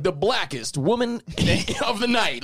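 announcer voice. Retold or imitated. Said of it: "they wouldn't be like".

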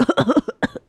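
high, short mock sobs; imitated crying. Cousin showing how abuelito cried, mock sobbing. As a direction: imitate grandpa's crying in little bursts. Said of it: "that's how he cries".

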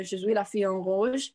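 careful French pronunciation of "Je suis la fille en rouge"; French phrase. Shown as a demonstration. To her podcast co-host, showing off her French, careful French. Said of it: "I learned how to say".

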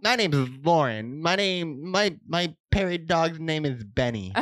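mocking impression of a friend; Lauren. Introducing her dog as her, mock impression. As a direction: tease her with a put-on introduction. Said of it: "you wanna hear my Lauren?".

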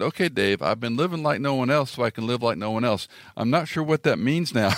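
mock puzzlement, climbing in pitch; playful needling that rises at the end; joking tease. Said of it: "trying to tease him and be funny".

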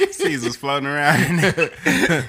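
laughing. Real, not acted. Laughing at own joke.

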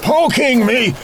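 fed up, telling him to stop; annoyed game unit. Acted. Poked repeatedly in the back.

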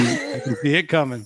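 said through a real chuckle; laughing. Real, not acted. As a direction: laugh as you say it.

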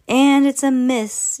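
high, loud and drawn-out yell; teacher yells in triumph at the miss; gloating yell. Acted. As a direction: crow over her miss, slowly. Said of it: "yelled Mister Jenkins".

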